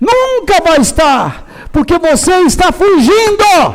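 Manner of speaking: emotional preacher-style roar. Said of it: "uns bravejamentos desse".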